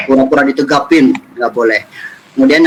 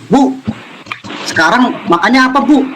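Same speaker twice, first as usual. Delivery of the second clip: mock yelling at mother; 9 semitones higher than usual. Shown as a demonstration. Child demanding food from mother, mock yelling. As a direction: call out to mum as a rude child would. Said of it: "Teriak, nggak boleh".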